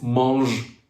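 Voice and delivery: MANGE ending in a voiced ZH sound; French "mange", closing on a buzzing ZH. Shown as a demonstration. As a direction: say "mange" with ZH, never SH. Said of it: "differentiate these two sounds".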